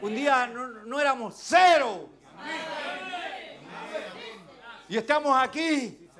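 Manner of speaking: loud, fervent preaching to the flock; preaching at full force. Acted. Preacher urging his brothers to value God's grace, fervent and loud. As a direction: drive every line home from the pulpit.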